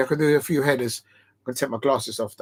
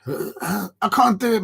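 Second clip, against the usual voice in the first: out of breath; 6 semitones higher, much slower than usual. Real, not acted. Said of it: "My voice is going".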